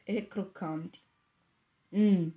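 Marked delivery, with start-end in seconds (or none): 1.9-2.3 loud pleased hum at a good smell; appreciative mm. A narrator's reading. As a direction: savour the cooking smell aloud. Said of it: "esclamò il signor Giovanni". (mm di apprezzamento)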